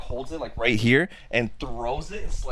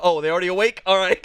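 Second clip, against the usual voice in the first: higher, lightly surprised resignation; mild mock surprise; 5 semitones higher, faster than usual. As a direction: shrug it off in a put-on voice. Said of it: "And he's like".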